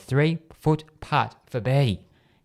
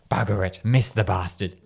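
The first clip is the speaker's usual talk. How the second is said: amateurish low-pitched voice from the heavens; deep voice; 4 semitones lower than usual. Shown as a demonstration. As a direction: drop into a not very good deep voice. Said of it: "my impression of a deep voice".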